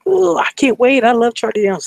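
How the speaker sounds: high, loud fan squeal; excited gushing. Retold or imitated. Retold girl gushing about a singer, excited. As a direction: imitate a concertgoer bubbling over.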